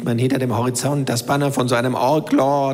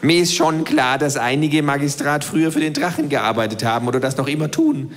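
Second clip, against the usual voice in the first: the know-it-all kangaroo lecturing; 2 semitones higher than usual. Acted. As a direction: voice the kangaroo, lightly. Kangaroo voice against narrator.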